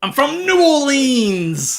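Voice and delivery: very slow, stretched New Orleans drawl; New Orleans accent. Acted. Host testing the actor's accent, mock New Orleans. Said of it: "Is that a New Orleans accent?".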